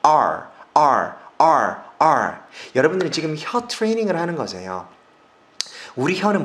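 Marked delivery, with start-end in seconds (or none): 0.0-2.4 R curled even further back, loud; extra-rolled R. Shown as a demonstration. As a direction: roll the R harder. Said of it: "더 굴리면 좋겠죠".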